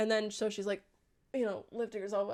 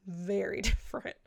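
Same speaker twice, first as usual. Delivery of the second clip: laughing; 2 semitones lower than usual. Shown as a demonstration.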